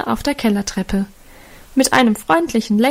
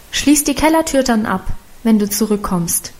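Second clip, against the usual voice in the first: calling after. Acted. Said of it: "rief sie ihm nach".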